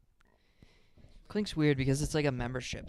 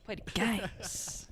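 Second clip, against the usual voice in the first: slow, high silly voice; drawn-out goofy echo; mock slow voice; 7 semitones higher, 4 dB quieter, much slower than usual.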